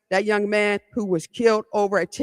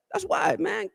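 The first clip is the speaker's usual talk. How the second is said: teasing shout; 8 semitones higher, 5 dB quieter than usual. Real, not acted. Teasing Seth who keeps interrupting.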